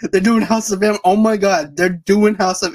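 a touch of excited fanboying; mildly thrilled, gushing; fanboy excitement. Retold or imitated. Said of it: "And I was freaking out".

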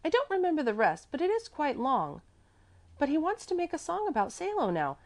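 put-on high, chattering child's voice; little girl Mäzli. A narrator's reading. Little girl telling about the song, high child's voice.

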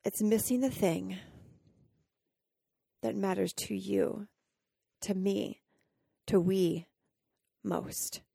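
emotional whisper. Real, not acted. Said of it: "I'm getting emotional just saying that".

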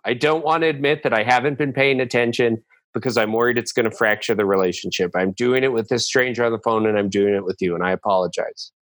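sincere apology. Acted. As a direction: apologize from the heart. Heartfelt apology to wife.

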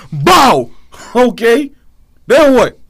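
taunting shout. Real, not acted. Taunting in heated banter.

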